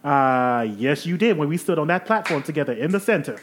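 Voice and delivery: fussy genteel lady. Acted. Eve again.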